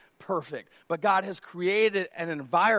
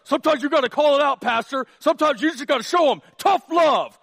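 louder, higher, faster indignant lecturing; mock tough-love critic; 7 semitones higher, 8 dB louder than usual. Tough-love churchgoer scolding the pastor, loud and indignant. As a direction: play the upset scold arguing with the pastor.

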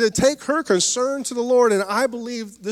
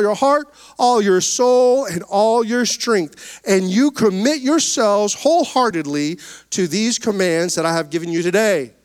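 scripture reading; 3 dB louder than usual. Acted. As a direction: declaim the verse to the congregation. Reads Deuteronomy aloud in church.

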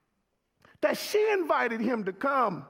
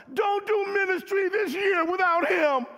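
preaching shout; 5 semitones higher, 3 dB louder than usual. Acted. Preacher exhorting congregation.

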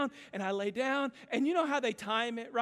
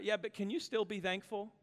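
gentle divine challenge. Retold or imitated. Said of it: "the Lord spoke so clearly to my heart".

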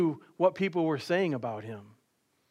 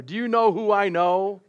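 indignant driver; 4 semitones higher, 4 dB louder than usual. Retold or imitated. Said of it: "the first question they would ask me".

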